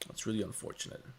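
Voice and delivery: whispered aside. Real, not acted. Deadpan aside after long pause.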